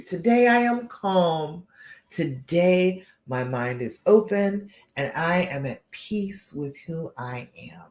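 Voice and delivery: measured, self-assured affirmation; assured conviction. Shown as a demonstration. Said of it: "You say it with assurance that it is the truth".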